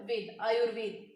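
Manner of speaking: वेद, then आयुर्वेद with र sounded before वे; र pronounced. Shown as a demonstration. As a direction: join आयुर and वेद, keeping the र audible. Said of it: "र यहाँ पे pronounce हो रहा है".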